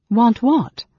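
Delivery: high, loud, baffled demand; bewildered and angry. A narrator's reading. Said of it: "bewildered and angry himself".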